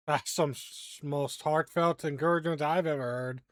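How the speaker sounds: a hint of an amused heckler; lightly voiced Silas. Silas walks up behind the two, lightly acted amusement.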